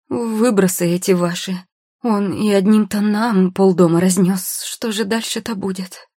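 high, overwrought fretting; distraught complaint.

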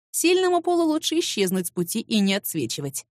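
usual speaking voice

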